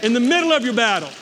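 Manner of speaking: fast and loud, punching "middle". Shown as a demonstration. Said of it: "I'm gonna say it again".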